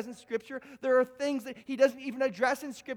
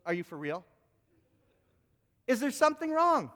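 mock incredulous wife; 2 semitones higher than usual. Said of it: "your wife looks at you and goes".

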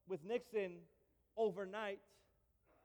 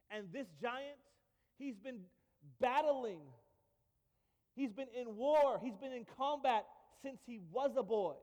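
doubting king; 3 semitones higher, 5 dB louder than usual. Retold or imitated. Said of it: "And he actually says".

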